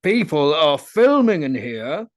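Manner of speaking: loud, slow, seething; angry through teeth. Retold or imitated. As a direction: spit it out through clenched teeth. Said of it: "through my teeth".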